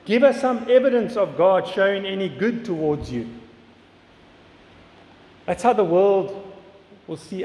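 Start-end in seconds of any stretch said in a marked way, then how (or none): 0.0-3.3 mildly mocking challenge, voice lifted; taunting enemies. Enemies jeering at David to prove God's favor, taunting. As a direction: throw it out as a taunting demand. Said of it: "we see the enemies taunting him, saying".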